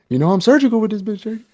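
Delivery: high, fast hammed-up quote; hammed-up movie quote. Quoting a crime movie to his friend, hammed-up. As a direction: ham it up like a movie villain. Impression of film line.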